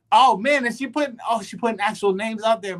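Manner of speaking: half laughing, can't believe it; excited disbelief. Real, not acted. Reacting to a friend posting names online, worked up.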